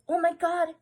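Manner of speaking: mock starstruck awe; awestruck lords. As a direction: exclaim like a courtier losing it. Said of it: "losing their shit".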